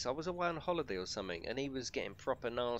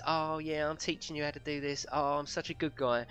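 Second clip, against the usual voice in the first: slightly higher, self-satisfied do-gooder imitation; mock Mister Helpful; 4 semitones higher than usual. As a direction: mockingly play the oh-so-helpful guy. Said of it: "he was Mister Helpful in that stream".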